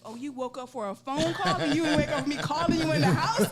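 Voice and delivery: laughing and loud, a mock scold; teasing husband half laughing, loud; laughing indignant retort. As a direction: needle the husband through laughter.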